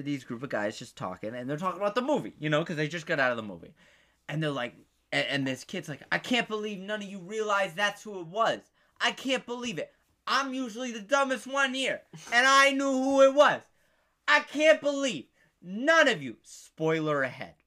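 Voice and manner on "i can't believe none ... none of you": retold gloating. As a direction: gloat in disbelief, getting higher and louder. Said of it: "he was gloating".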